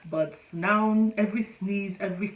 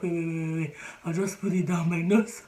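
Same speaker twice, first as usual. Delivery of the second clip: louder, urgent plea for air; breathless plea; 5 dB louder than usual. Retold or imitated. Gasping under a mask while out, louder urgent plea. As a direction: beg to pull the mask down and breathe. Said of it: "I'll be like".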